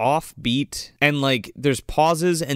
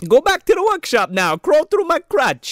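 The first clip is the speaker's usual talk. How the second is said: mock commanding Jonathan; 12 semitones higher, 4 dB louder than usual. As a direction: order the elves with creepy grandeur. Parody of Jonathan ordering elves.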